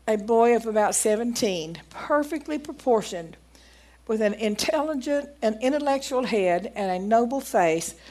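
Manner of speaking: measured, emphatic reading of an account; reading aloud. Acted. Preacher reading a doctor's testimony to the congregation, deliberate read-aloud.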